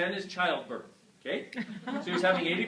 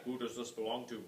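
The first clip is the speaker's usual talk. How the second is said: inner voice; 6 semitones lower, 6 dB quieter than usual. Retold or imitated. Question heard in his head.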